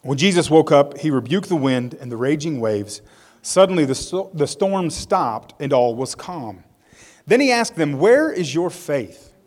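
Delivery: expressive, measured story narration; dramatic public Bible reading; scripture reading. A narrator's reading. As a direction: read the Bible story aloud with deliberate emphasis. Reads Bible story aloud.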